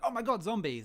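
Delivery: shrieking oh my God zombies; hammed-up horror movie panic; mock panic. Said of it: "They're not stupid enough to be like".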